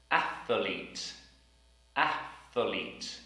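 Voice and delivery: Athlete with th in the middle; Athlete, th between a and l; careful th in athlete. Shown as a demonstration. Teacher drilling the word Athlete. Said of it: "T H sound in the middle".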